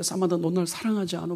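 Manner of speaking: soft, hushed plea to a lover who is leaving; tearful plea. Retold or imitated. Tim pleads with Samantha through tears. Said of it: "막 울면서 사만다한테".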